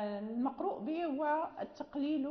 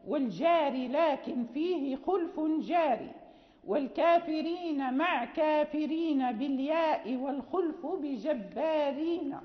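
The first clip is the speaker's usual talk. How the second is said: measured, metrical recitation of didactic verse; teacher chanting rules in verse; 4 dB louder than usual. Acted. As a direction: recite the lines firmly, in metre. Recites lines of the poem.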